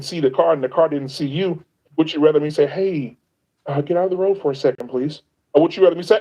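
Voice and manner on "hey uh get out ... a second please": gentle polite warning. Retold or imitated. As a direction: ask nicely, almost apologetic. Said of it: "the tone should not matter".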